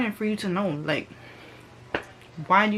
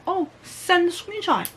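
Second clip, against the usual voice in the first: higher and louder, demanding; retold yelling; 6 semitones higher, 4 dB louder than usual. Yelling at the friend on the phone, higher and louder. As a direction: push hard, daring them to send it. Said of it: "I was yelling on the phone".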